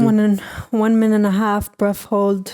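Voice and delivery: breathing coach with put-on accent; mock breathwork tutorial voice; Wim Hof. Guiding viewers through breath hold, mock coach accent. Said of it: "that's the Wim Hof breathing".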